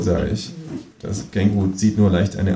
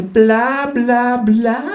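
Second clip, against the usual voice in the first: high, louder dismissive bla bla; bored kangaroo; 4 dB louder, much slower than usual. Acted. Kangaroo at home mocking the economist, high dismissive voice. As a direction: drone it out as the fed-up kangaroo. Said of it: "sagt das Känguru im Fernseher".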